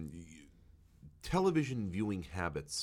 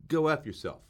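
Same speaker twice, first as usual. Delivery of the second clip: rude machine voice; 6 semitones higher, 8 dB louder than usual. Pretend. The dish talks back rudely.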